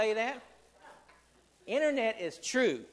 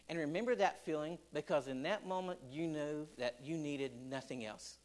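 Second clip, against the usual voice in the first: softer intimate preacher tone; tender recollection; 4 semitones lower, 5 dB quieter than usual. Acted. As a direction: coax them back to that first moment. Tender appeal to remember.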